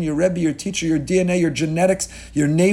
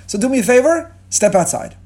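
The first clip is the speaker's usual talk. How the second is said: mock-polite dismissal; 8 semitones higher, 5 dB louder than usual. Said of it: "to say".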